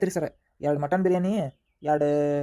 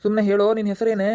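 loud curt order; impatient demand; 3 semitones higher, 6 dB louder than usual. Acted. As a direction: snap the order at him. Constable demands prisoner's name.

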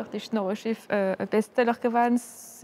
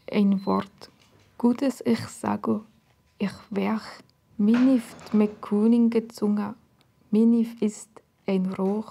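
put-on slow, measured recitation of old verse; poetic recitation; slower than usual. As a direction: recite it deliberately, with pauses between phrases.

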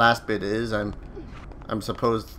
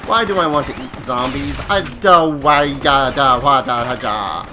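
panicked; 6 dB louder than usual. Real, not acted. Panicked at zombie attack.

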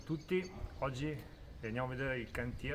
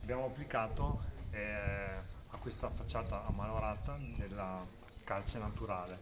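through a face mask. Real, not acted. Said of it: "Qua con la mascherina".

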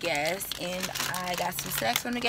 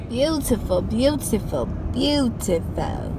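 awed; 3 semitones higher, 3 dB louder, slower than usual. Real, not acted. Admiring aunt's house.

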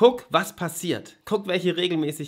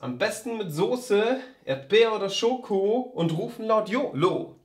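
poem recital; 5 semitones higher than usual. Shown as a demonstration. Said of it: "so ist es jedes Mal".

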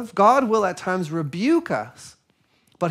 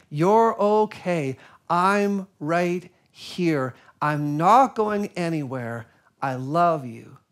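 slow tender reassurance. Retold or imitated. Quoting God's words slowly.

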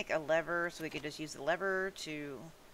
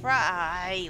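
shout; 3 semitones higher, 11 dB louder than usual. Real, not acted. Yelling at misbehaving pet.

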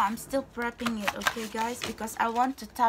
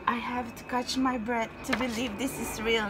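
normal talking voice

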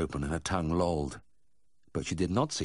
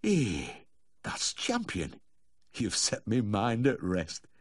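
slow, relieved Yorkshire owner; 4 semitones higher, much slower than usual. A narrator's reading. Reassured dog owner thanking the vet, slow and relieved. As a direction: breathe relief, drawing the words out. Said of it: "Mister Cobb relaxed visibly".

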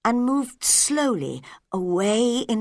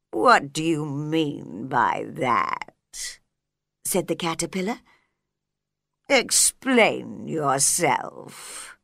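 slow caterpillar voice; 4 semitones lower, slower than usual. A narrator's reading. Caterpillar demands Alice explain, low slow voice. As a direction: lower and very slow, lazy.

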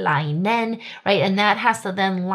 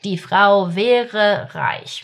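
slow model sentence; 4 dB louder, much slower than usual. Shown as a demonstration. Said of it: "teacher repeats the model sentence".

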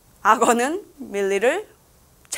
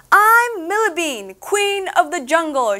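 slow, higher proud boast; 5 semitones higher, slower than usual. Acted. Millie boasting to the jungle, slow proud voice. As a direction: puff up like a proud little queen. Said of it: "she boasted".

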